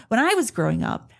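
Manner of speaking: lightly hammed-up back-in-my-day tone; mock elder, leaning hard on I; old-timer lecture. Mom reminiscing at her kids, lightly playing the old-timer. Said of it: "I do, I sound so old".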